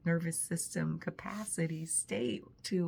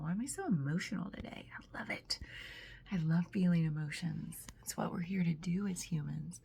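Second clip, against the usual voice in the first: getting emotional. Real, not acted. Moved while reflecting on curiosity in her voice journal. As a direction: let it come out hushed and moved. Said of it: "I'm gonna get emotional".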